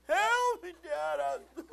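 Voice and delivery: very high, loud imitated kid's plea; child crying for help. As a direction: yell for dad like a stuck child. Imitates tangled daughter begging for help.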